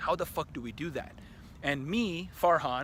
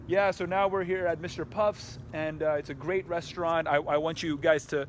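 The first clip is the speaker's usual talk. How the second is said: mock celebrity vlogger; 2 semitones higher than usual. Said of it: "like I'm some kind of celebrity".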